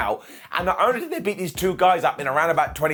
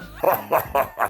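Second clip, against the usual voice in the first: M. Bison laugh. Retold or imitated. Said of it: "like I'm M. Bison or something".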